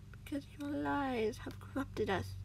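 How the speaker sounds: slow, drawn-out growled accusation; growling. A narrator's reading. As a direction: growl it slowly. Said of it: "the man growled".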